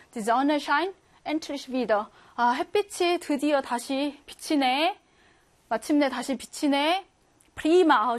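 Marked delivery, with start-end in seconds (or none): 0.1-2.1 very slow, careful German reading. Shown as a demonstration. Teacher reading a German exam sentence slowly. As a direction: read the German line out slowly for the class. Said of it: "발음 문제 한번 하겠습니다".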